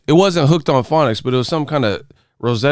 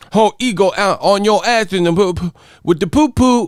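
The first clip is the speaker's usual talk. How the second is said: higher, babbling kid-talk imitation; mock little kid; 5 semitones higher than usual. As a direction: mimic childish nonsense, pitched up. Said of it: "you guys talk like little kids".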